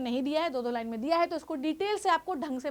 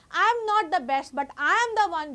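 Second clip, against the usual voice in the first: chest-thumping claim; 2 semitones higher, 5 dB louder, much slower than usual. Real, not acted. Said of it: "बिल्कुल छाती ठोक कर मैं बोलती हूँ".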